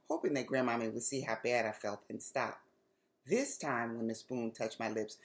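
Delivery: lively read-aloud storytelling voice; story narration. A narrator's reading. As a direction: tell it like reading to kids. Author reads her chapter book aloud.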